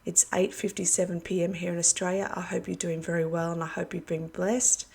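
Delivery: talking through a worn-out throat; hoarse voice. Real, not acted. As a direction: voice going, a bit hoarse. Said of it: "Pardon my voice".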